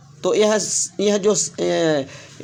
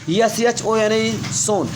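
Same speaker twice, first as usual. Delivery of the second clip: letters spelled out slowly, one by one; careful classroom spelling then the word; 2 semitones higher, much slower than usual. Shown as a demonstration. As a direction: dictate each letter slowly to students. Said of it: "इसका उच्चारण थोड़ा सा इसका भिन्न है".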